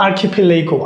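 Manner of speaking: "আর্কিপেলাগো" said as ar-khi-phe-LAY-go; "আর্কিপেলাগো" with an "ei" glide before the last syllable; pronunciation demo. Shown as a demonstration. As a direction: model "আর্কিপেলাগো" with breathy kh and ph, "lay" in it. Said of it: "উচ্চারণটা কেমন তো বলেন তো".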